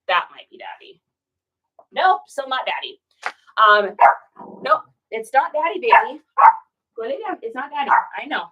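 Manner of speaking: calm the dog and send it to lie down; soothing the dog. Real, not acted. Speaks to the dog waiting for Daddy.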